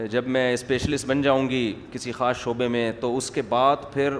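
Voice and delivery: mock-sober, even, low recital; very serious. Girl explaining study plans before marriage, mock serious. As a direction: list the plans with feigned gravity. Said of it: "بڑی سنجیدگی کے ساتھ نا".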